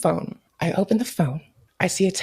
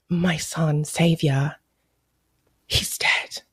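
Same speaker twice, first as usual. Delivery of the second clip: mock grief; 3 semitones lower, much slower than usual. Quoting grieving parent mockingly.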